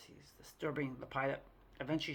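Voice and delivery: ordinary talk, nothing marked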